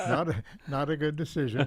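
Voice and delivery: repeats it through a laugh. Real, not acted. Echoing Harry's words about his wife, laughing.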